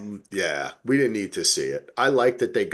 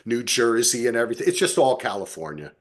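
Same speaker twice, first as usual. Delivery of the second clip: louder, higher, dismissive shrug of a voice; mock exasperation; 3 semitones higher, 3 dB louder, faster than usual. Voicing his son's joke about lazy settlers, higher and loud. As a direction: toss it off like the settlers couldn't be bothered. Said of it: "He's like".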